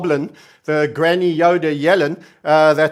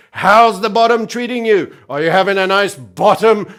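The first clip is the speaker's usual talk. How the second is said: mock taunt; 4 dB louder than usual. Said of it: "one of their favorites".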